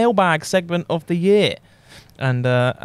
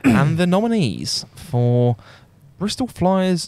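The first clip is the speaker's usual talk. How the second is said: awards presenter; 3 semitones higher than usual. Acted. Co-host opens the podcast awards, awards presenter. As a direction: build suspense before the nominees.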